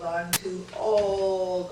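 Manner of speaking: a mock moan about age. Shown as a demonstration. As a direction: sigh it out like you're fed up. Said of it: "repeated louder".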